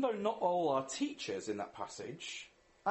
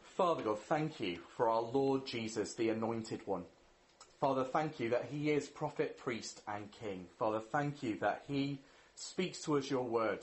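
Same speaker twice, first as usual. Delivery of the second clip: lower, measured praying voice; prayer; 4 semitones lower than usual. Real, not acted. Preacher thanking Father God for Jesus, prayerful. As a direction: pray aloud to God, subdued and steady.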